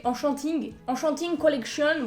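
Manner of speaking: English name with a frank French accent; accent français. Real, not acted. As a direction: say "Enchanting" with French nasal vowels, "an-chan-ting". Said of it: "avec mon bel accent français". (bel accent français assumé)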